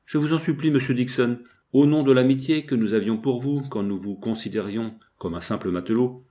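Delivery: lightly voiced distressed wife begging for mercy; pleading wife. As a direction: plead urgently, with sudden lifts and falls.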